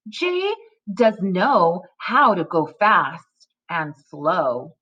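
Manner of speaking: slow, deliberate read-aloud with pauses; measured story-time reading; reading to children. Acted. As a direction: read each word distinctly for young readers. Reads decodable story to children.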